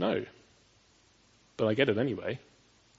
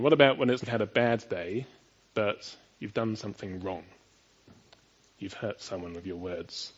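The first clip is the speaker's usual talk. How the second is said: usual speaking voice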